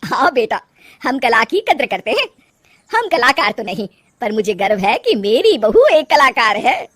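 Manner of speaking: loud, proud mother-in-law. Acted. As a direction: declare your pride with emphatic lilts.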